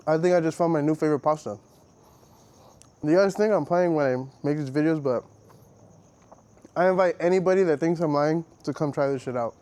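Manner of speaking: talking with a mouth full. Real, not acted. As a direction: speak around a bite of pasta. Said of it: "I need to stop talking with my mouth full".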